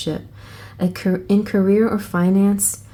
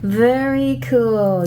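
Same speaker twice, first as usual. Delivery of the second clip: delighted; 5 semitones higher, 3 dB louder, much slower than usual. Real, not acted. Delighted by the card reading.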